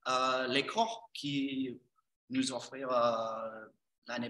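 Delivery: American speaking French; French with an American accent; foreign accent in french. Real, not acted. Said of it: "je suis désolé si mon français c'est pas le mieux".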